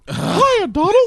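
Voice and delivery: squawky cartoon duck voice; Donald Duck voice. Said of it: "Donald Duck".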